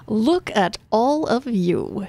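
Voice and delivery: slow, grandiose address to the crowd; lightly voiced smug leader; pompous governor. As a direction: savor each word like a politician. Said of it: "he says".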